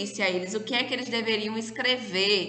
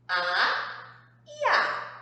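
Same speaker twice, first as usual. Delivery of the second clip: exaggerated question to class; much slower than usual. Shown as a demonstration. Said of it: "quem são as minhas vogais".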